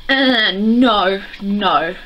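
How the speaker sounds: emphatic disgusted refusal; acted revulsion. Vlogger reliving hatred of a book character, acted repulsed refusal. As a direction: push away the idea, starting forcefully.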